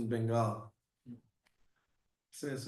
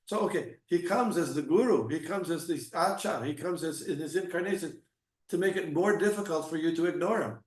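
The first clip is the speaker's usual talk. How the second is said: impassioned preaching; 3 semitones higher, 5 dB louder than usual. Real, not acted. Impassioned point about ignoring Krishna.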